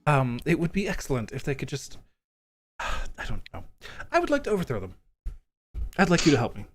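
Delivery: lightly voiced lord plotting an overthrow; a hint of a vain nobleman sighing, then proposing; lightly acted self-important schemer; vain coin lord, scheming.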